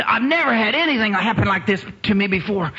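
high, laughing wonder; giddy with joy; laughing amazement. Retold or imitated. Wife amazed after the spirit came, laughing. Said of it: "She said".

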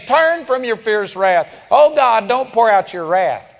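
mock begging plea to God; begging prayer. Preacher imitating a believer begging God, mock begging prayer. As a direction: beg God to hold back his wrath, half-mocking. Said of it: "standing there and saying".

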